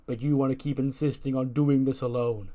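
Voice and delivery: loud mocking praise, sneering at Seth; sarcastic. Chad Gable mocking Seth backstage, sarcastic loud praise. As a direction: pour on the fake applause, sneering. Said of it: "some sarcastic clapping".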